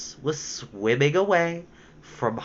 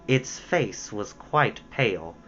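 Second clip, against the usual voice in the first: plain reading voice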